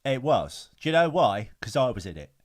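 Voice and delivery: punchy London film-star impression; comic boast in a borrowed star's voice; Michael Caine. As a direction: put on a young Cockney actor, emphatic. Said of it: "I can only do Young Michael Caine".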